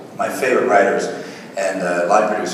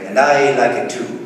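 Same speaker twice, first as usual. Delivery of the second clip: higher, louder mock Irish lilt; fake Irish accent; 4 semitones higher, 4 dB louder than usual. Actor quoting an Irish Spring soap ad, fake Irish accent. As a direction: mimic an Irish soap ad in a put-on brogue. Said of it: "soap in America called Irish Spring".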